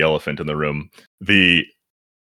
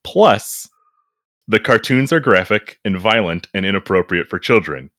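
indignant reviewer voice; 2 semitones higher than usual. Acted. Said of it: "this is a review from Amanda on Amazon".

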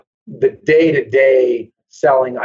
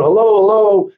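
raised, higher voice calling through the apartment; announcing himself to possibly-home tenants, called out; retold calling out; 4 semitones higher than usual. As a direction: call out to the empty house, a bit higher. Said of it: "and I call out".

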